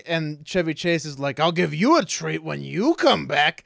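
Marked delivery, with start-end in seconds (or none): 1.4-3.6 mock seductive. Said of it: "he says it all, like, weirdly seductively".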